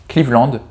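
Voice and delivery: "Cleveland" with a French nasal ending, KLEEV-land; half-French pronunciation. Shown as a demonstration. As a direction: keep "klee" in "Cleveland", make the end French. Trying pronunciations of a name. (« Cleveland » prononcé « klivlande », fin à la française)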